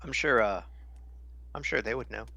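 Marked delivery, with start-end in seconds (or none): 0.0-0.6 talking through a mouthful of food; words round a bite of food; mouth full. Real, not acted. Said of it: "Sorry, my mouth is full".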